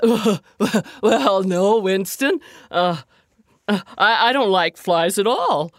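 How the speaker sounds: lightly voiced friendly bear; gentle bear person. A narrator's reading. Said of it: "replied the bear".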